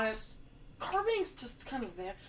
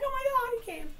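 mock shock; 13 semitones higher than usual. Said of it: "I'm like".

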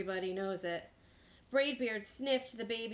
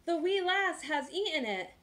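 higher, half-shouted lament; dismayed yell; 6 semitones higher than usual. A narrator's reading. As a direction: announce disaster as the pirate captain. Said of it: "yelled Braidbeard".

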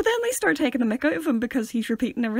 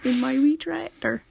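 slow, put-on West Country accent; mock West Country accent; 2 semitones higher than usual. Joking about a tractor, slow mock West Country accent. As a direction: draw it out like a comic West Country farmer.

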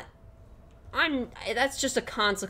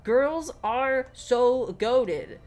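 gushing; 4 semitones higher, 6 dB louder, much slower than usual. Real, not acted. Gushing over girls while gaming.

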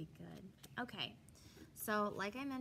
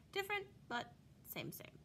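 high playful flip; 10 semitones higher than usual. Acted. Catchphrase flipped, higher.

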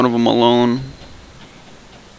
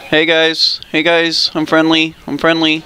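higher squeaky put-on voice; 4 semitones higher than usual. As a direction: pitch it up into a silly squeak. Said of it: "I'm gonna go with the squeaky voice".

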